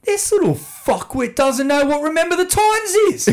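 high and loud, laughing through it; telling the workmates off, loud and laughing; laughing mock threat. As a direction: pretend tough guy cracking up.

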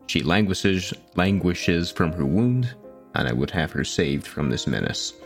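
solemn archaic letter read; formal letter reading. Acted. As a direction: read it like a grand plea. Reads quest letter aloud.

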